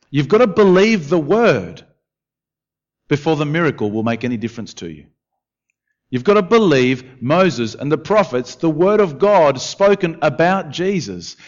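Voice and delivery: impassioned preaching. Acted. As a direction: press it home with emphatic force. Preaching at full force.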